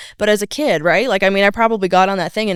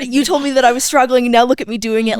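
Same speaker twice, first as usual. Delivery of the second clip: higher-pitched proud retort; imitating excited student; 6 semitones higher, 4 dB louder than usual. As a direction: playfully voice a student's triumph. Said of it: "seeing their excitement".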